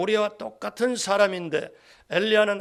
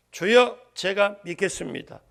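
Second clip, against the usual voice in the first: firm, raised declaration of faith; loud confession; 3 semitones higher, 5 dB louder than usual. Acted. The father confesses faith to Jesus, loud and sure. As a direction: call out to the Lord with conviction. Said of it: "큰 소리로".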